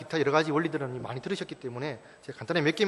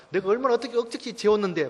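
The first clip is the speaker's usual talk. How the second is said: high, loud imitation of an exasperated mother; mock angry venting; 7 semitones higher, 6 dB louder than usual. Pastor as mother venting wrath over the woken baby, mock angry. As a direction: let the grievance burst out, higher and louder. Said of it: "막 이렇게 분내야죠".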